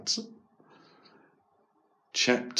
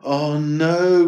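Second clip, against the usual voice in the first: groaned; 4 semitones higher, 4 dB louder than usual. Acted. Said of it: "groaned Eric".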